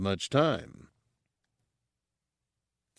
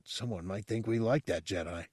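whispered; 8 dB quieter than usual. Acted. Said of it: "Aquan whispered".

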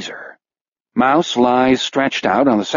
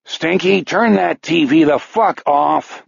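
roaring biker; 5 semitones higher than usual. Acted. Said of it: "Beezer roars".

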